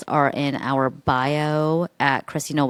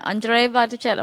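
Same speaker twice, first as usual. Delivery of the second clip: laughing; 9 semitones higher than usual. Pretend. Laughing repeat of the name.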